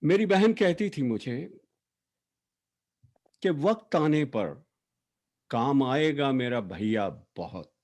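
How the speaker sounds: measured verse reading with long pauses between phrases; poetry recitation. Acted. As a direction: recite an elegy line by line, letting each phrase stand. Recites own poem for late sister.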